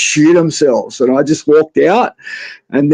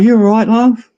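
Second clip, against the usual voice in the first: lightly imitated old lady, higher pitch; sweet old lady; 6 semitones higher than usual. Sweet old lady checking on her shaken passenger, higher voice. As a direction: raise it into a sweet old lady's concern. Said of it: "This sweet old lady drives me".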